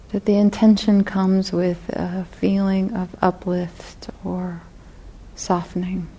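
unhurried guided reflection, long pauses between phrases; guided meditation. Real, not acted. Teacher guiding meditators to feel their intention to sit, guided meditation. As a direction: lead them gently inward, leaving space after each phrase.

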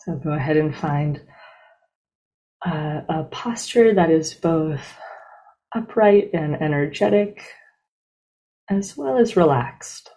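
unhurried, evenly paced meditation guide, long silences between phrases; guided meditation. Real, not acted. Teacher leading a group into breath meditation, calm and spacious. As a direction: ease listeners into stillness, one measured phrase at a time.

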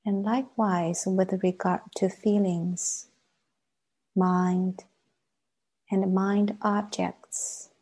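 measured meditation guidance with long silences; guided meditation. Acted. Teacher leading a class into sitting practice, guided meditation. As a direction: guide them gently inward, pausing long between phrases.

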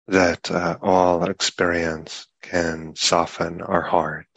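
unhurried meditation guidance with long pauses between phrases; guided meditation. Real, not acted. Teacher guiding a group sitting in meditation, unhurried guided meditation. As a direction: speak in measured phrases, leaving long silences.

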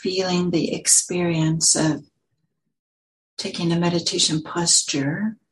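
unhurried guiding voice with long pauses; calm meditation teacher, phrase by phrase; guided meditation. Real, not acted. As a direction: lead them gently into settling, leaving space between phrases.

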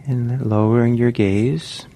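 unhurried meditation guidance with long pauses; measured meditation-teacher delivery, phrase by phrase; guided meditation. Real, not acted. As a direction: guide listeners gently, leaving long silences between phrases.

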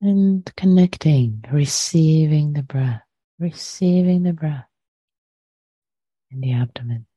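unhurried meditation guidance with long pauses; guided meditation. Real, not acted. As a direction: gently guide listeners to settle, phrase by phrase.

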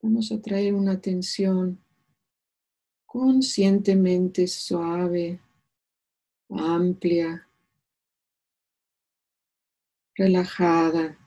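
calm meditation voice with long pauses; unhurried, soothing meditation leader; guided meditation. Acted. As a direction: guide them gently into stillness, leaving space between phrases.

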